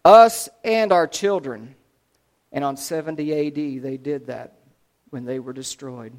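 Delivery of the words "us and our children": slow, loud narrated shout; loud, deliberate mock yell; crowd yelling. A narrator's reading. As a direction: call it out like a crowd, drawing out the words. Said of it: "They yelled".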